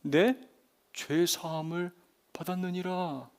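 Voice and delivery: slow, soft solemn pronouncement; grave scriptural declaration; Jesus pronouncing. Acted. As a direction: declare it gently and deliberately. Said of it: "예수님의 입에서 나온 그 음성은".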